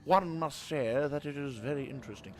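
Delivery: lightly hammed-up posh English; put-on posh accent. Gamer teasing himself for sounding grand, put-on posh accent. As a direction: go mock posh. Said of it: "very posh, apparently".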